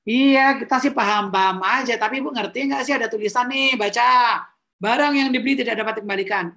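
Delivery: rude staff reply. Shown as a demonstration.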